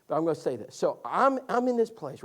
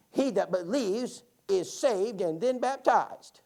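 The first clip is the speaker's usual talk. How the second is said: put-on old lady voice; 3 dB louder, much slower than usual. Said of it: "would you read that again".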